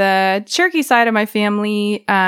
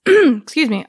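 clearing throat; 4 semitones higher, 3 dB louder than usual. Real, not acted. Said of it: "frog in my throat there".

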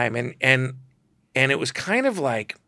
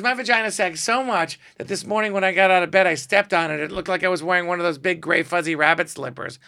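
higher, brassy joke delivery; lightly voiced Joan Rivers; 5 semitones higher than usual. Joan topping his joke, lightly voiced brassy diva. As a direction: tell it like a deadpan diva. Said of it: "She goes".

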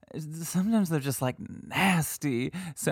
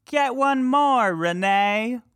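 much higher and louder ghost mimicry; mock EVP voice; 9 semitones higher, 5 dB louder, slower than usual. Host offering a guess to listeners, high mock ghost voice. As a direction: sing out the option like the recording.

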